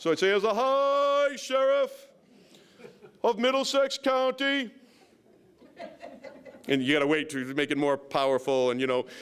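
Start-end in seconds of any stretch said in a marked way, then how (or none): 0.3-4.7 put-on very high, very slow, drawn-out grand British accent. Retelling his announcement to a crowd, in a fancy put-on British accent. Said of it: "who told you to do the British accent?".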